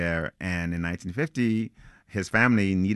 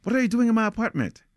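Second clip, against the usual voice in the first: high, louder attempt at a scary challenge; trying to sound scary; 4 dB louder, faster than usual. Startled narrator confronting a stranger in his apartment, mock scary shout. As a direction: bark it out, aiming to frighten an intruder. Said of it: "trying to sound scary".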